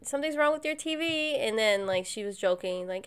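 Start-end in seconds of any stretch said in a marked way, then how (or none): 0.0-1.4 mock-sweet horror movie line; imitating movie character. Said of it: "so she's like".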